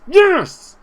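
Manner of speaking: high, loud cheer; excited yes. Real, not acted. Manager cheering the curling goal, loud yes. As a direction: shout it as the ball curls in. Free kick goes in.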